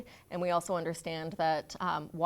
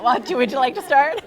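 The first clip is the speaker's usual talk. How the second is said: laughing; 7 semitones higher, 17 dB louder than usual. Real, not acted. Laughing invitation to colleague.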